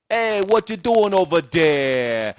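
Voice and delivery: loud, high, slow mock American holler; American accent. Host mocking how Americans talk, broad American accent. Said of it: "Americans are not much better 'cause they say things like".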